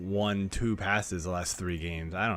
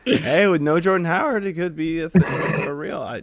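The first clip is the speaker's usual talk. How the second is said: excited; 10 semitones higher, 12 dB louder than usual. Real, not acted. Excited defense of Sanders.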